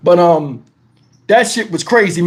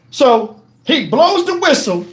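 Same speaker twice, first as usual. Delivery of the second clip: ordinary talk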